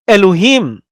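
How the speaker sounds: "Elohim" with a high, long final HIM; stress on last syllable. Shown as a demonstration. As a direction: lift and lengthen the him in "Elohim". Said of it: "You see how I pronounce that?".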